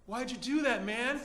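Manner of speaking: hurt protest rising in pitch; sad, wounded plea. Acted. Thief whose bag was kicked, sad wounded complaint. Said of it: "with sad puppy dog eyes".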